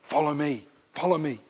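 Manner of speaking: soft, hushed call, spaced by pauses; quiet, unhurried invitation to follow; Jesus calling. Acted. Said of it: "as he says today".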